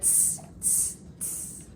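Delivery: whispered teasing tss; monkeys tssing. A narrator's reading. Monkeys mocking the peddler from the branches. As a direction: hiss it back like cheeky monkeys. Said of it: "stamped both their feet back at him and said".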